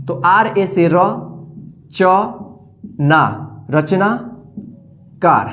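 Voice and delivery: ordinary talk, nothing marked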